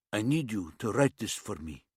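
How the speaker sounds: put-on light East European accent, blunt demand; a hint of an East European tough. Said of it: "His accent was some sort of East European".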